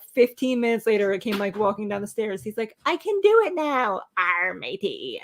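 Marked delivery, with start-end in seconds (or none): 2.8-5.2 child's pirate imitation. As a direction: lightly play a kid trying pirate talk. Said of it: "to talk like a pirate".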